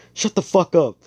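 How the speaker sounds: loud, high-pitched mock fury; hammed-up furious shout; acted angry outburst. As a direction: yell it as you lash out. Acted outburst before a slap.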